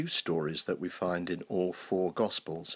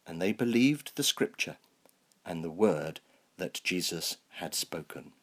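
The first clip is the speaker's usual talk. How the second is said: measured, even Bible reading; unhurried liturgical reading voice; scripture reading. Acted. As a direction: read the Gospel to the congregation with care. Reads the Gospel passage aloud.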